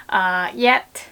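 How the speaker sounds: ordinary talk, nothing marked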